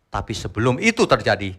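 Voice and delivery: ordinary delivery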